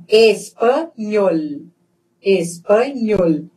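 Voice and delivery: "espanhol" slowly by syllable, firm ny and clear final L. Shown as a demonstration. Teacher shows tongue position, slow ny in "espanhol". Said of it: "A língua vai lá em cima".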